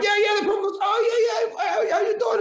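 high excited shout of recognition. Retold or imitated. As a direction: yell it out, thrilled to be remembered.

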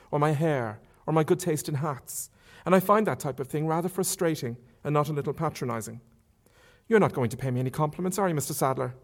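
chatty, faintly teasing lady; a hint of a bold young woman talking; Marion. Marion's long speech.

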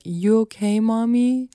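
imitating a child checking in, high-pitched; small high questioning kid voice; concerned children. Mom retells both kids checking on her, concerned. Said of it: "both of them came up to me".

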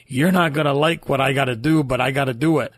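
emphatic, badly imitated Dutch doctor; half-hearted Dutch accent, firmly delivered; terrible Dutch accent. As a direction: lightly put on a bad Dutch accent. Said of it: "that was a terrible Dutch accent".

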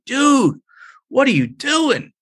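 high, urgent call across the street; alarmed call pitched high. Retold or imitated. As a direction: shout out in alarm to stop him. Running into street, confronting him.

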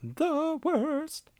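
high, drawn-out disgust; emphatic disgust. Real, not acted. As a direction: savor the verdict. Echoing with emphasis.

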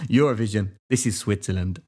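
put-on a light Swiss accent, proudly announced; lightly imitating a Swiss waiter. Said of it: "you did a Swiss accent then".

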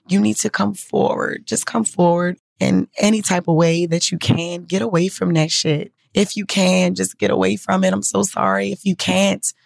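pleading, voice lifted and a little choked; urging them with real feeling; getting emotional. Real, not acted. Podcaster pleading with women listeners, getting emotional. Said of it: "'cause I'm getting emotional".

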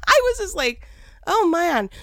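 high, loud laughing. Real, not acted. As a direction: push it out through laughter. Laughing while retelling.

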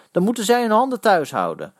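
angry, high-pitched retort; furious. A narrator's reading. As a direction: call it out in anger. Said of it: "riep Eddy woedend".

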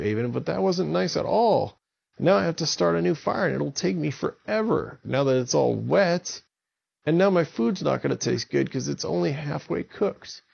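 scolding giant. Acted. Jerry scolds Avon.

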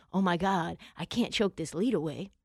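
low, soft, worried groan; panicking coach. Retold or imitated. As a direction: mutter in mock dread, pitch down. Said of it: "Sean McVay being like".

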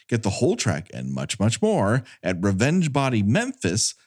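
brisk, even credits read; fast legal disclaimer. Acted. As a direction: rattle off the disclaimer quickly. Reads end credits disclaimer.

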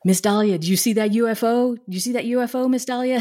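put-on eager teen asking fast; excited kid. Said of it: "One of the kids came up to me and he was like".

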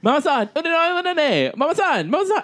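high, shrill sing-song calls; imitating Carrie Ann. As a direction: wail for mom in a high voice. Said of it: "Carrie Ann Inaba moment where she talked to her mom".

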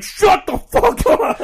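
high, slow, laughing snap; high cartoon character cursing; high laughing mock insult. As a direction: squeal it while laughing.

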